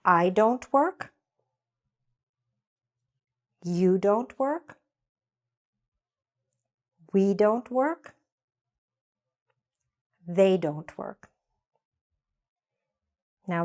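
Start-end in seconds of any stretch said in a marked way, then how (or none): 0.0-11.3 slow, clear drill lines with pauses; slow repeat-after-me drill. Shown as a demonstration. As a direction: model each line slowly for the class. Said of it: "let's go through these".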